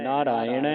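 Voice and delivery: "ਨਾਰਾਇਣ" with long naa and a vowelled final ṇ; careful vowel endings. Shown as a demonstration. Teacher spells out the vowel signs, "ਨਾਰਾਇਣ" carefully sounded. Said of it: "ਨੰਨੇ ਕੰਨਾਂ ਲਾ ਕੇ ਨਾਣੇ ਨੂੰ ਜਲਾਉਣ".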